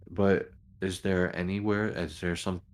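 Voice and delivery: normal talking voice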